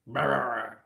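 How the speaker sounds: mock growl. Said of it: "this is him thinking out loud".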